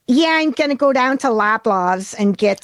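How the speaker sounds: put-on a light Buffalo accent, swallowed and fried. Imitating local Buffalo women, light Buffalo accent. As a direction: talk from the back of the throat like Buffalo locals. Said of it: "I can't even do this accent".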